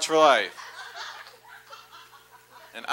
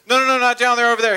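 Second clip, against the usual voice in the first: calling out; 8 semitones higher, 7 dB louder, much faster than usual. Retold or imitated. Railway worker shouting directions.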